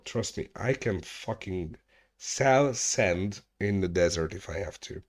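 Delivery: ordinary talk, nothing marked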